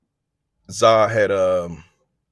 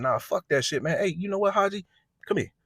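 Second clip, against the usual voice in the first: put-on angry teen; 9 semitones higher than usual. Zah firing up again.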